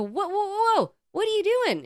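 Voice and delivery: high-pitched, startled whoa-whoa challenge; acting out indignant alarm; alarmed protest. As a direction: retell it as a sharp, high objection. Confronting man grabbing mom's suitcase.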